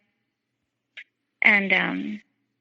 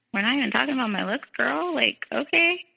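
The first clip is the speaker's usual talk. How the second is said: sassy retort; 5 semitones higher than usual. Retold or imitated. Retorting to the insulting message.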